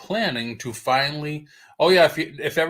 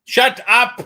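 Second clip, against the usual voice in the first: high, sharp shout; loud retort; 11 semitones higher, 11 dB louder than usual. Real, not acted. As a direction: shout it back at the teasing. Playful retort to teasing co-host.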